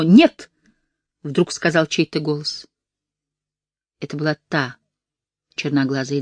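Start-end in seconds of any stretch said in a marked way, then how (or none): 0.0-0.5 loud sudden no; loud cry. Acted. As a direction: cry out to stop it. Girl cries out.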